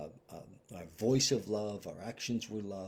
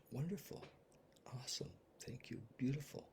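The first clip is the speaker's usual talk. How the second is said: bright, grateful answer; 4 semitones higher, 10 dB quieter than usual. Retold or imitated. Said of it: "the answer's".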